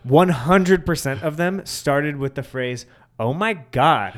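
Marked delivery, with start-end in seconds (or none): 3.2-4.2 drawn-out, imitated American accent; mock American accent. Brits attempting an American accent for visitors, mock American accent. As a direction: put on a Brit's slow American accent. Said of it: "do an American accent".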